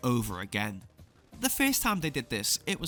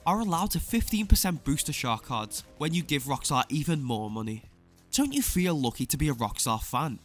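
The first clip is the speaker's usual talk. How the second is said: smug sarcastic exposé. Acted. Sarcastic praise of shark card bonus.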